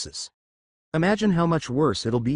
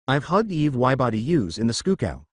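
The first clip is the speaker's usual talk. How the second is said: Elmer Fudd speech. Acted. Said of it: "why are you speaking with an accent?".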